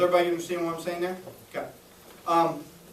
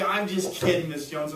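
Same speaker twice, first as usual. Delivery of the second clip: playful just kidding. Shown as a demonstration. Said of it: "then you say".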